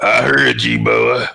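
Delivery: demonstrated redneck drawl; hammed-up redneck voice; redneck accent. Shown as a demonstration. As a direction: put on a redneck Southern accent. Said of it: "I did a redneck accent".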